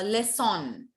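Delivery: LEÇON with a sounded n, "lesson-n"; wrong final N. Shown as a demonstration. Teacher showing students what not to say, LEÇON with spoken n. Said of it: "we do not say le".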